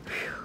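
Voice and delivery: out-of-breath exhale; winded whew. Real, not acted. Vlogger winded from walking down the steps, breathy whew. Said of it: "How the hell am I gonna be out of breath".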